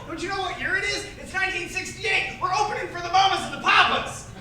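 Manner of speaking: high-pitched, exclaimed punchline; excited band members. Acted. The band's excited retort in the joke.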